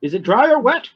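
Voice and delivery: high, loud pet cat voice; Hugo voice. Acted. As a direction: voice the cat asking about food. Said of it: "That's my Hugo voice".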